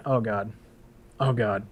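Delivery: low, soft resigned groan; retold dread. Recruit hears he must sing for the sergeants, quiet mock dread.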